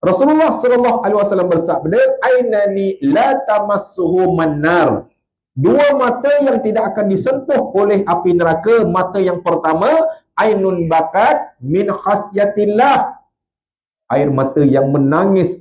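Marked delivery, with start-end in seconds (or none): 2.2-5.1 slow, measured Arabic recitation; Arabic hadith recitation. Real, not acted. Preacher quotes the Prophet's words in Arabic, slowly. 10.4-13.2 slow, measured Arabic recitation; Arabic hadith recitation. Real, not acted. Preacher quotes the Prophet's words in Arabic, slowly.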